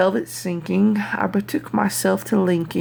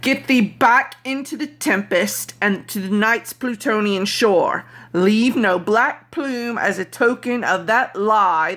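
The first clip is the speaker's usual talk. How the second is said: shriek; 3 semitones higher than usual. Acted. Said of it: "I shrieked".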